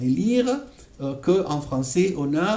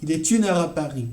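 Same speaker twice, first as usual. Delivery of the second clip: fast linked Il est une heure à Paris; quick natural delivery; faster than usual. Shown as a demonstration. Teacher says the phrase at normal conversational speed. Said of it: "le R qui va se mélanger".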